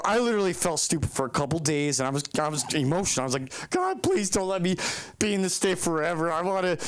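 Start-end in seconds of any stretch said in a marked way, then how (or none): 3.7-6.8 pleading prayer. Retold or imitated.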